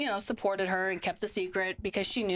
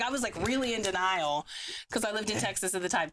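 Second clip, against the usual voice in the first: usual speaking voice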